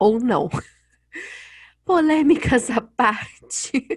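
loud, very slow, drawn-out nervous laugh. Joking about what they would change about a book, laughing nervously. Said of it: "Rindo de nervoso".

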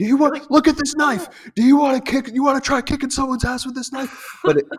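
fed-up, frustrated yelling, pitched very high. Speaker recounts going off at a whole seminar; retelling a yell. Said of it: "I'm just yelling".

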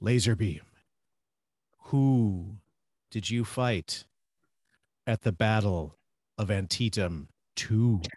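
eerie, creepy, swirling character voice. Voicing a character addressing laserbeam, in a creepy swirl voice. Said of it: "in kind of his like creepy swirl voice".

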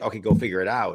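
ordinary delivery

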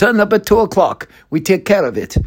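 put-on Russian accent in a spy-villain style. Quoting what she said after the speaker explained the situation, in a mock Bond villain Russian accent. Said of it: "in a sort of mock James Bond villain Russian accent".

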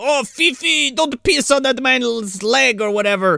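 very high, slow, fake French accent. Retelling a park bench bit with a fake dog: put-on french accent. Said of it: "puts on a French accent".

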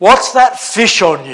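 very loud, carriage-filling call. Retelling a man calling out to the whole carriage, in a loud voice. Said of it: "he used to say in a loud voice to the whole carriage".

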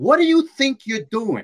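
high, swooping, sing-song Brooklyn accent. Describing their go-to voice when upset, the speaker demonstrates it in a brooklyn accent. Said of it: "I go into that Brooklyn thing".

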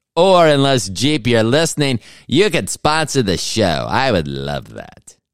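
put-on high, loud, old-fashioned old-timey voice. Host asks Jeep to sponsor the show, old-timey voice. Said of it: "I went back to the old-timey voice".

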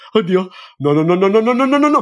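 put-on panicked speech, rising and high-pitched. Speaker retells reacting out loud during a scary movie, retelling loud panicked commenting. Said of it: "ho iniziato poi a commentare ad alta voce".

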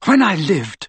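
stiff, rigid delivery. Narrator reading a woman's reply in a conversation, stiff. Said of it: "she said stiffly".

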